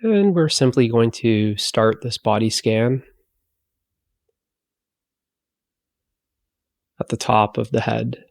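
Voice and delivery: unhurried body-scan guidance with long pauses; guided meditation. Acted. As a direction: ease them into relaxation, leaving long silences between phrases.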